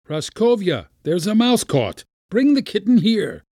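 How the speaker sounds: high-pitched repeated summons; calling out. A narrator's reading. Uncle summons Praskovya next day, calling out. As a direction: sing out the order to the servant. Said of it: "heard again the summons".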